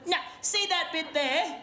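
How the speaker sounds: lightly voiced smug shark explaining; a hint of a territorial shark lecturing; shark's logic. Voicing a shark's logic to a human.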